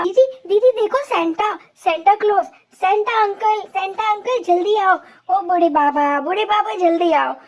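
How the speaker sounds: ऊँची, ज़ोरदार खुश पुकार; दूर आते सेंटा को उछलकर बुलाओ; उत्साह से पुकारना. Acted. Children excitedly call Santa. (Santa को देखकर चिल्लाते बच्चे, ऊँची खुश पुकार)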